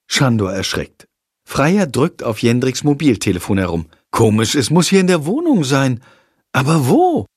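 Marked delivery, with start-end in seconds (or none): 4.1-7.3 wondering. Acted. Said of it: "wundert sie sich".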